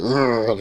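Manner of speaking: mock macho "ugh" grunt; manly grunt. Shown as a demonstration. Man describing the boost after a cigar, playful manly grunt. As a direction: grunt like someone feeling pumped up.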